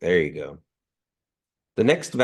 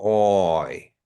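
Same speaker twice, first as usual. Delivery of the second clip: elongated vowel; 5 dB louder than usual. Shown as a demonstration. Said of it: "making it a little longer".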